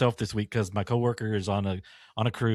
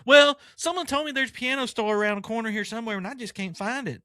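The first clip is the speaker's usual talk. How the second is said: imitating the lady; 12 semitones higher than usual. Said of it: "she sounds just like".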